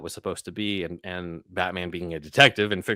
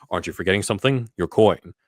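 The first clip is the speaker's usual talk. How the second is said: louder, punchy mock Batman; over-the-top Kilmer line; 6 dB louder than usual. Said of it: "instead of the whole".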